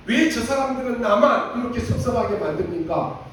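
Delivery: mock grumbling to God; whining prayer. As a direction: imitate a self-pitying prayer. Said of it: "그렇게 기도했어요".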